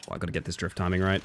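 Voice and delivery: ordinary talk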